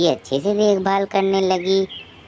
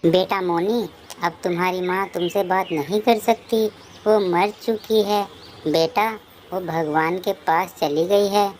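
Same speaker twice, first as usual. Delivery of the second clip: higher-pitched, grieving explanation; bereaved father, voice raised in pitch; sorrowful father; 4 semitones higher than usual. Acted. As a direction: gently break terrible news to a child. Father breaks death news to daughter.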